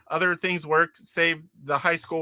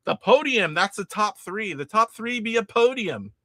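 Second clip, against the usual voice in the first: pirate voice; 4 semitones higher than usual. Pretend. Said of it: "I'm still kinda talking like a pirate".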